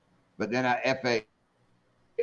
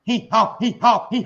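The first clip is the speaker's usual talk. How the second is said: dopey guy voice; 6 semitones higher, 4 dB louder than usual. Retold or imitated. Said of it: "He looked over at me and goes".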